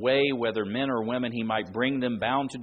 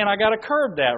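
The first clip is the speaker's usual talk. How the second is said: Tommy; 8 semitones higher, 8 dB louder than usual. Retold or imitated. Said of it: "But Tommy's saying".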